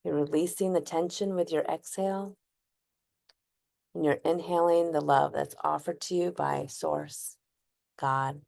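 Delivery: unhurried, gently guided breathwork, long pauses; guided breathing meditation. Acted. Host guiding listeners to inhale, hold and exhale, calm meditation voice.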